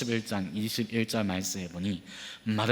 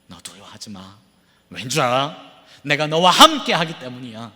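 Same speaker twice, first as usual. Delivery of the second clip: tender comfort. Acted. Tender paraphrase of God's voice. (부드럽게 위로하듯)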